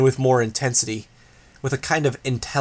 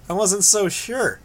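higher, slow mocking voice; taunting voice; 8 semitones higher than usual. A narrator's reading. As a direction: drawl it out as a taunt. Grace taunting Regent.

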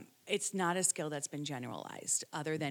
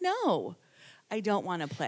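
upset refusal; 2 semitones higher, 6 dB louder than usual. Retold or imitated. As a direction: refuse him, annoyed and hurt. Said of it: "And she's like".

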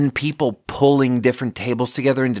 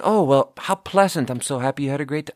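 pleasantly gushing; 2 semitones higher than usual. Pretend. Imagined reply to a happy customer, put-on pleasantness. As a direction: pretend to be delighted for a customer. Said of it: "match her level and be like".

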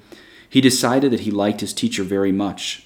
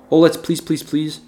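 put-on begging children; 7 semitones higher than usual. Children beg to eat candy.

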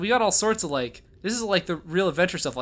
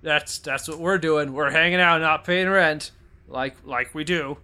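mock ogre voice; 2 semitones lower than usual. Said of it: "Just talk like an ogre".

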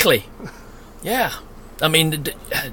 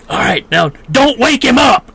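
louder mock shush; loud stage whisper; 4 semitones higher, 4 dB louder than usual. Campers shouting to keep Mozart asleep, loud mock hush. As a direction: shout a shush that defeats itself. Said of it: "they're being so loud".

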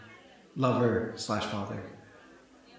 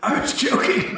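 laughing whisper; 7 dB louder than usual. Acted.

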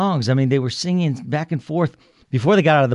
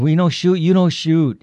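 louder and higher, a lightly voiced German soldier in broken English; calling across the trenches; 4 semitones higher, 5 dB louder than usual. German soldier calls to British trenches, mild mock shout. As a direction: shout it over no-man's land, a hint of foreign soldier.

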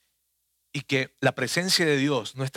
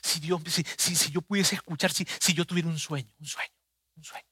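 soft wishful murmur, fading away; imagined yearning, softly voiced; wistful longing; 5 dB quieter than usual. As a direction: plead quietly, trailing into near silence. Voicing someone longing for God.

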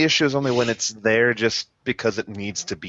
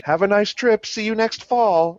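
movie quote; 8 semitones higher than usual. Retold or imitated. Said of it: "from the Mighty Morphin movie".

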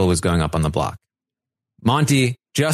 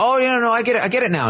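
high-pitched hasty agreement; mock flustered; 13 semitones higher, much faster than usual. Ally pretends he follows, flustered. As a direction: imitate someone scrambling to catch up.

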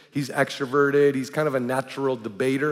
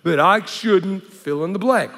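higher, louder, slow offended protest; mock the defensive outburst; indignant freak-out; 3 semitones higher, 4 dB louder, slower than usual. Pastor voicing an offended person, slow indignant protest. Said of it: "the person's generally gonna freak out".

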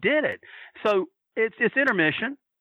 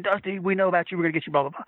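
imitating Jimmy; faster than usual. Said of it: "just the way Jimmy does".

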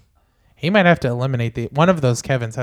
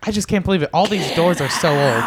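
mock skeptical Pat. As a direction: play a doubter in disbelief. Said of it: "Pat having a hard time believing".

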